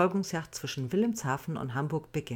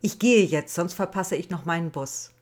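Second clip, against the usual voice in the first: defiant; 6 dB louder than usual. Acted. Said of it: "Trotzig warf Alicia ihren Kopf".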